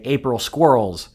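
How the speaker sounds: "squirrels" said in place of "Fools"; child's mispronunciation. Retold or imitated. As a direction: imitate a toddler saying "April squirrels" for April Fools. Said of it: "she couldn't say April Fools".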